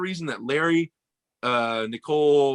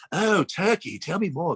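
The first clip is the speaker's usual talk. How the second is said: high, eagerly intrigued retold voice; excited imitation; 5 semitones higher, slower than usual. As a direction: imitate her lighting up with interest. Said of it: "she's all excited about it".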